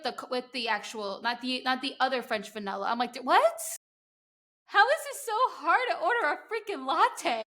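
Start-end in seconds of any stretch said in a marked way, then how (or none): 3.1-7.4 higher, louder, incredulous what; mock exasperation. Retelling confusion at a Vancouver coffee counter, exasperated. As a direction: throw up your hands at the latte order.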